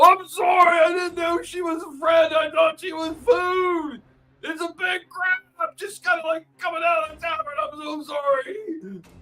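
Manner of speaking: high, slow, pleading, apologetic ogre voice. Voicing an ogre who apologizes after being attacked: voicing a pleading ogre. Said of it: "as you can hear the ogre going".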